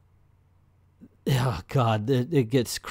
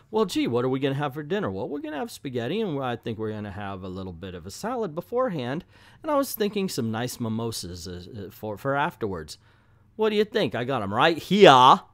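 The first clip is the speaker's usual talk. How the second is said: mock small talk; faster than usual. Reviewer parodying dinner dialogue in the comic, mock small talk. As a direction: chatter casually, then hit "here" as "heah". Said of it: "it is only on the word here".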